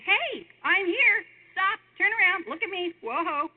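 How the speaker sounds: God calling out. Acted. Preacher voicing God crying out to get Moses' attention. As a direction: call out like God stopping someone in their tracks.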